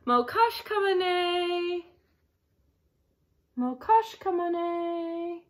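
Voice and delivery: "Mokash kamane" spoken slowly and carefully, syllable by syllable; slow down and spell out "Mokash kamane" with your voice; slow word demo. Shown as a demonstration. Teacher slowly modelling a Bolivian phrase for kids. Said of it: "Alona says".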